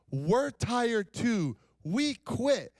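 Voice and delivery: high, slow whiny we quit; mock weary crowd. Church planners telling the preacher they quit, high and whiny.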